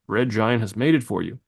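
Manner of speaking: a light touch of a corporate announcer; Red Giant voice. Shown as a demonstration. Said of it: "I'm speaking in my Red Giant voice".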